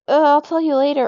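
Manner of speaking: mock a friend who dodges the question; sarcastic. Girl mimics her friend dodging "is something wrong", sarcastic. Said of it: "in the most, like, sarcastic way".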